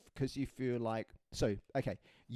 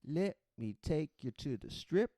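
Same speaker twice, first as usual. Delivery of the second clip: put-on lightly done American cabbie accent drifting around, a bit slow; a hint of an American taxi driver's accent that keeps changing; shifting put-on American accent; 2 semitones higher than usual. Playing an American taxi driver for a Vegas tourist, light, drifting American accent. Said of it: "his accent's changing".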